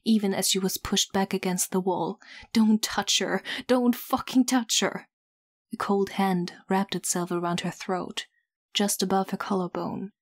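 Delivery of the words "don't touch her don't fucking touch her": angry shout, rising higher; furious yelling. Acted. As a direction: yell it in desperate fury. Nikta fights being restrained.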